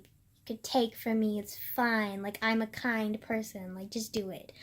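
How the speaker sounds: soft, quiet mock-meek offering; meek submissive voice. Voicing what her soft voice seems to say to others, lightly meek and quiet. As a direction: lightly play a pushover giving in. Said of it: "to scream submissive giving".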